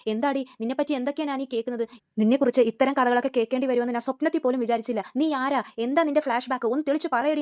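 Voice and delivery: a half-acted angry interrogation; retold scolding. Aunt confronting her daughter-in-law, mild mock anger. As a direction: demand answers from the girl with mock fury. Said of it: "ബഹളം വെക്കുവാണേ".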